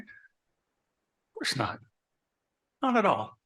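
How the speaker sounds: deadpan it slowly under the breath; of course not, said with slow dry irony to the room; sarcastic. Acted. Sarcastic aside to audience.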